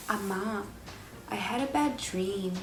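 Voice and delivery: drowsy, quiet call to mom; half-awake murmur to mom; sleepy and soft. Retold or imitated. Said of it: "and I was like".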